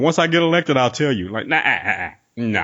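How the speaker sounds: a light take on an evasive politician dodging the question; mild mock Trump dodge; Donald Trump impression. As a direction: brush it off like a candidate, lightly voiced. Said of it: "he pulled the Donald Trump".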